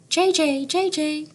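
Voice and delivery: high, sharp jay jay call; blue jay shriek. A narrator's reading. Teacher reading to class, shrieking like a blue jay. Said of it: "Blue jay's shriek is as sharp as a drill".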